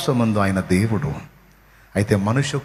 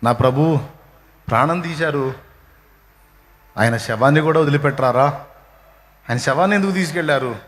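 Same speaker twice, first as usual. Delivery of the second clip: lightly voiced weeping Magdalene; 3 semitones higher than usual. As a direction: plead like a grieving woman, understated. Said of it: "మగ్దలేన ఏడుస్తా పోయిద్ది". (మగ్దలేన ఏడుస్తూ అడిగే స్వరం, తేలికగా)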